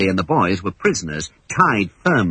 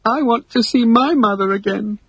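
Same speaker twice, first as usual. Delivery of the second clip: gulping; 11 semitones higher than usual. Acted. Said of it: "gulped Michael".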